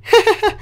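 high, rapid cackle; quick high-pitched giggle burst; teasing laugh. Pretend. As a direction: laugh tauntingly at the figure. Teasing the moving figure.

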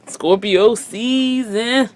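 slow, loud promo voice; radio announcer voice. Retold or imitated. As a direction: stretch it out like a radio host. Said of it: "that radio voice that be like".

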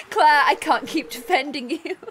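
put-on character voice. Reading NPC line in a voice.

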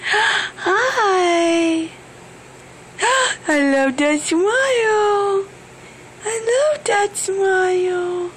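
choked-up, crying while cooing; tearful. Real, not acted. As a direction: talk through happy tears. Mother meeting baby, emotional.

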